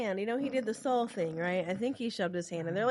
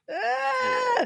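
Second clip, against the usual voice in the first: high, loud mock pig squeal; playful shrieked "ah"; imitated squeal; 5 dB louder than usual. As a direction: let out a sustained high squeal. Imitating the squealing pig just mentioned.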